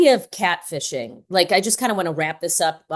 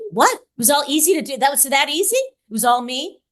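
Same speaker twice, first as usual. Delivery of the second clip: incredulous, higher-pitched echo of a confession; mock disbelief; 5 semitones higher than usual. Podcast host retells a shocking confession, mock disbelief. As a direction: play up stunned questioning.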